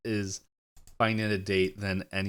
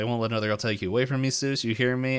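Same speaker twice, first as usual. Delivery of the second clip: rapid, mildly frantic retelling; freaking out; 3 semitones higher, faster than usual. Retold or imitated. Game girlfriend refusing to lose her boyfriend, mildly freaking out. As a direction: rush it out in mock possessive panic. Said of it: "begins freaking out".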